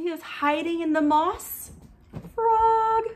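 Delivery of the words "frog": higher, louder burst on Frog; cheerful exclaim to the children; excited. Acted. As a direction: pop the word out. Excited reveal.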